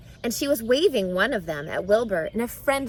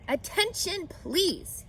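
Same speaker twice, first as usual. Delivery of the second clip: higher, eager pig calling out; Wilbur's announcement voice; 9 semitones higher, slower than usual. Acted. Wilbur repeating his message to the barn, calling out. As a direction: call for attention again.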